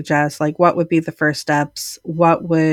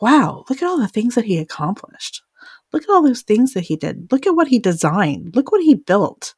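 higher-pitched, marvelling wow; voiced admiration; 4 semitones higher than usual. Thinking about this man's accomplishments, voiced admiration. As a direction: list the feats in rising awe. Voicing own admiring reaction.

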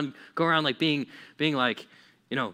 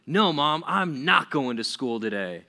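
lightly acted defiant kid, louder at first; rebellious kid; 4 dB louder than usual. Kid refusing Mom about school, mildly rebellious. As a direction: put your foot down, easing off at the end. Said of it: "you were a rebellious kid".

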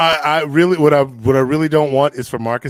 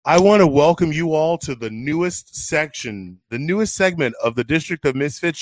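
hammed-up ringmaster welcome; grand entrance announcement. Show host welcoming audience.

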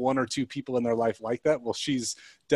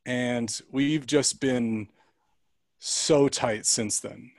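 tender; much slower than usual. Real, not acted. Tender memory of bond.

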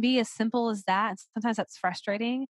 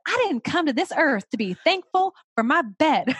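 mock tantrum; 8 semitones higher, 7 dB louder than usual. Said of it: "she was like".

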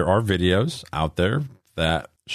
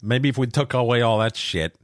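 mocking; 6 semitones higher than usual. Mocking list of national days.

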